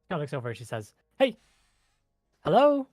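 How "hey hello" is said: very high, loud fairy voice; insistent fairy trying to get a response; ice fairy. Acted. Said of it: "there is an ice fairy next to you".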